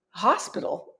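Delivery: retold puzzled query, at normal volume; understated questioning repeat; puzzled echo. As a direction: echo it back, unconvinced. Retells own baffled reply to shouters.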